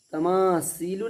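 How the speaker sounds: तमासीलु with a hissed s in सी; wrong seen sound. Shown as a demonstration. Teacher warning against this reading, sharp s sound. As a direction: say तमासीलु with plain s for th. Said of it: "नहीं पढ़ना है".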